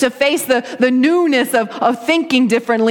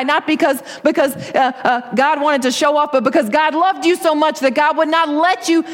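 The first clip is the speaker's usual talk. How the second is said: pleading Moses, building; 4 semitones higher than usual. Retold or imitated. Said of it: "Moses is saying".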